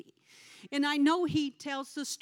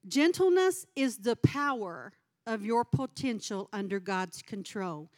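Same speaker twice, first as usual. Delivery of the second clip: preaching statement; 4 dB louder than usual. Shown as a demonstration. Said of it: "Can you say that with me?".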